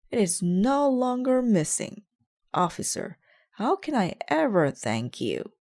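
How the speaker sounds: high, loud delighted thanks; thrilled to have the hat back; overjoyed. Acted. Detective thanking the officer, high and excited.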